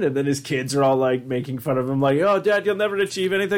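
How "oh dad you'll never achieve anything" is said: put-on teasing kid in a light Irish accent; mock a dad in an Irish accent; playful Irish child voice. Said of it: "doing all these different Irish accents".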